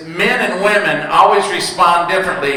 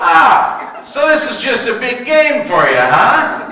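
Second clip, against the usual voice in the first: mock outburst; 5 semitones higher, slower than usual. Comic outburst at cashier.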